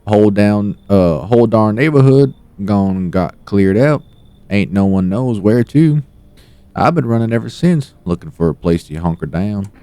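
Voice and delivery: lightly voiced southern lady; southern mama voice. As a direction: talk like a homey country mama. Voicing a southern woman visitor.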